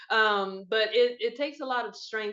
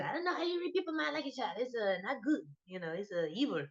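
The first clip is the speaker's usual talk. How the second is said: imitating mom; 4 dB quieter, faster than usual. Daughter repeating mom's verdict on card reading, mock-disapproving mom voice. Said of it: "that's what she said".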